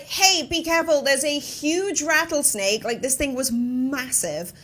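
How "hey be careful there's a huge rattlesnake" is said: raised, high warning call; retold yell. Hiker warns a woman whose dogs are getting ahead, retold yell. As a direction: call out a warning, higher and louder. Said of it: "I sort of yelled to her".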